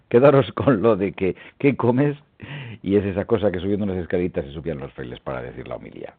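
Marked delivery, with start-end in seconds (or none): 1.6-2.2 1 rising question. Shown as a demonstration. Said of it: "Para cambiar la entonación".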